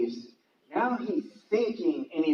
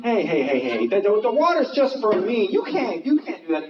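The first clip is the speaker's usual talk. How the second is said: mock objection; 4 semitones higher than usual. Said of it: "You think Jesus is like".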